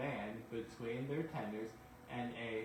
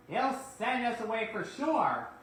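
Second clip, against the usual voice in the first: glum; 10 semitones higher, 9 dB louder than usual. Acted. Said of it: "The twins were looking glum".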